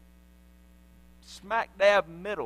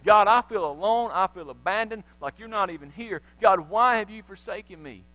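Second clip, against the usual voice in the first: louder, anguished appeal; Jesus crying out; 5 dB louder than usual. Acted. Jesus on the cross calling to God, anguished cry. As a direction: cry out the forsaken line. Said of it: "Jesus cried out to God".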